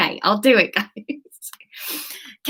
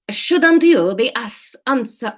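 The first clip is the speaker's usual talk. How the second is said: put-on slow, higher Spanish accent; attempted Spanish accent; 5 semitones higher, slower than usual. Trying out the new character's line, hesitant Spanish accent. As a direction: feel your way into a Spanish accent. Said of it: "Let's do Spanish".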